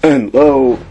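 fevered scripture intoned; delirious preaching. A narrator's reading. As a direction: rave the verses like a stricken preacher. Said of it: "moaning and speaking deliriously".

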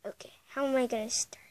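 quick unvoiced whisper; whisper, unsure where to start. Whispered before the climb.

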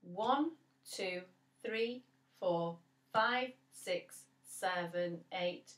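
even counted beats; counting the beats. Shown as a demonstration. Teacher counts the eight beats aloud for the children. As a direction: count it out steadily. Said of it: "Let's try it on the other side now".

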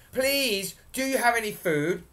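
high, loud pleading call; shouting up. A narrator's reading. Small Jack asking the giantess for food, calling up. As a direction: call up to someone towering above. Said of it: "shouted up".

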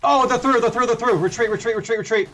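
urgent high shouts to retreat; hyped gamer bro. Real, not acted. Enemies break through, calls retreat.

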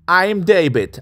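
drawn out, slow and clear; slow teacher model. Shown as a demonstration. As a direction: spell out each word slowly for students.

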